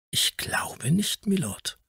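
hushed, dry and measured reply; dry, deliberate. A narrator's reading. Lawyer answering the Earl drily, hushed and unhurried. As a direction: answer drily, almost in a whisper, slowly. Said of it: "in seiner trockenen, bedächtigen Art".

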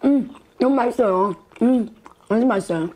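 chewing while talking; mumbled through food; mouth full. Real, not acted. Seen 2: Eats from stew pan, lips closed chewing; noodles not clearly seen.

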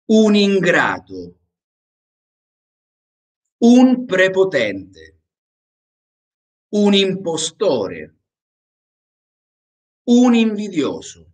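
slow, clear phrases with long pauses between; slow dictation with pauses. Shown as a demonstration. Teacher dictating phrase by phrase for repetition. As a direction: pause after each phrase for the class to repeat. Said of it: "inmediatamente me pauso y la van a repetir conmigo".

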